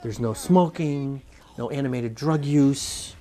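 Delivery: slow, deliberate announcement; mock-official ratings read. Host explaining the G rating to Ed, slow mock-official read. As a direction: list each item drawn out, like a formal notice.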